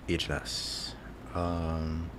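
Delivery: a teasing secret, barely voiced; mysterious whisper. Dodging the question about age, whispered. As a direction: whisper it coyly, almost breathless.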